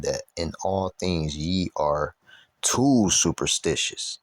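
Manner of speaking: slow, emphatic Bible reading; scripture reading. Acted. Preacher reading Paul's visit to Athens for listeners, scripture reading. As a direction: stretch out each phrase of the verse deliberately.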